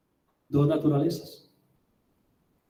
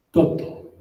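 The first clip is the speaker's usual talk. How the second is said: whispered echo. Acted. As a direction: breathe the word out like a secret. Whispered echo of key word.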